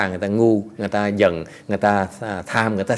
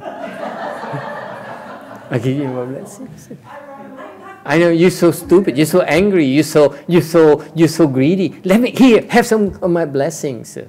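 mock phony blessing; 3 semitones higher than usual. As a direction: play the smug fake saint. Mocking phony blessing givers.

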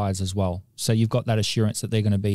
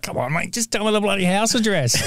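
laughing, pitched up high, pleading with a caller; pretending to beg mid-race while cracking up; mock impatient plea; 9 semitones higher than usual. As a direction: fake desperation breaking into laughter. Imagined agent watching horse race.

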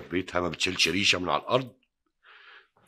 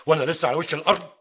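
loud and much higher, offended pride; indignant outburst; 10 semitones higher, 10 dB louder than usual. Acted. Husband protesting that his wife must work, loud and indignant. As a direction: burst out in wounded pride.

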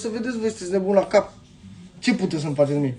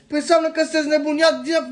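angry outburst; 5 semitones higher, faster than usual. Real, not acted. Angry rant at CNA.

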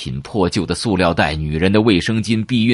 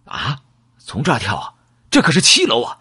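alarmed protest; 4 semitones higher than usual. Acted. Narrator balks at seven-floor jump.

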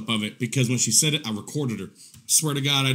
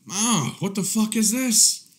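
disgusted disbelief; 6 semitones higher, slower than usual. Retold or imitated. Disgusted reaction.

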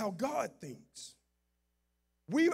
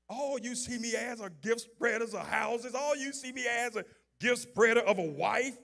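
God speaking. Retold or imitated. Preacher voicing God.

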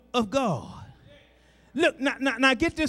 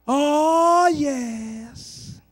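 retorting church sister; 4 semitones higher, 4 dB louder than usual. Retold or imitated. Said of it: "she would retort".

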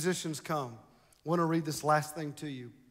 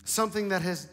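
prophecy read aloud; 3 semitones higher, 4 dB louder than usual. Real, not acted. Reads out prophecy to congregation.

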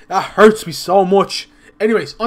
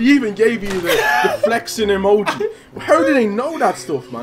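laughing; 2 semitones higher than usual. Real, not acted. Laughing while reading texts.

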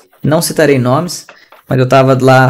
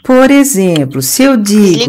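drawn-out, higher mock teacher voice; imitating teacher; 5 semitones higher, much slower than usual. Tutor imitating a teacher heard in class, slow mimicry. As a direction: mimic a teacher, stretching each word. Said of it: "tô imitando".

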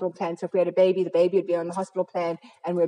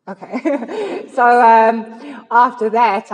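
embarrassed laugh; 5 semitones higher, 11 dB louder, much slower than usual. Real, not acted. Realises she is running out of time.

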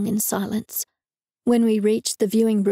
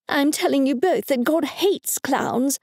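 stern, raised mother's voice; firm; 4 semitones higher than usual. Acted. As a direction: lay it down with no room for argument. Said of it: "my mother said firmly".

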